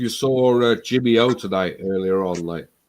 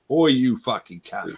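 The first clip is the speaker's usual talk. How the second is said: put-on Cockney accent; slower than usual. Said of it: "Cockney voice".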